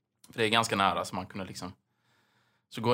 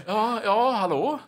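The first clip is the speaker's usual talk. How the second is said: raised, earnest hello; more serious call; 11 semitones higher, 6 dB louder, much slower than usual. Retold or imitated. Calling the neighbor seriously from the balcony. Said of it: "Lite mer så här seriöst".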